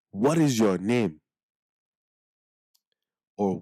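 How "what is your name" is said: slow, careful "What is your name?"; slow English version. Shown as a demonstration. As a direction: sound out each word of "What is your name?".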